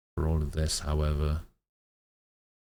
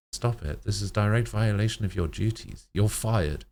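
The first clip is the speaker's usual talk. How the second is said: angry scolding; 5 semitones higher, 3 dB louder than usual. Acted. Doctor fuming.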